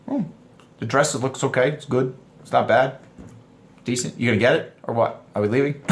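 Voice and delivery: understated, uninterested man's delivery; unimpressed man. Retold or imitated. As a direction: shrug it off without any excitement. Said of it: "men are gonna be like".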